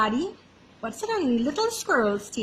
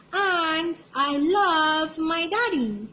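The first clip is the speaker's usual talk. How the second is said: shouted; 5 semitones higher, slower than usual. Acted. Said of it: "shouted Little Squirrel".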